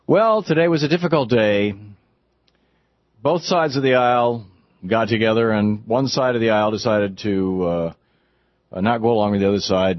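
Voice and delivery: a hint of a diplomatic speech, settling down as it goes; imagined presidential statement. Host imagines the president's old speech, mildly conciliatory imitation. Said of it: "he would have said it like this".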